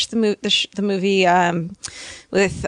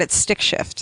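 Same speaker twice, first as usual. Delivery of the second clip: whispering; 4 dB quieter, slower than usual. Pretend. Whispered punchline.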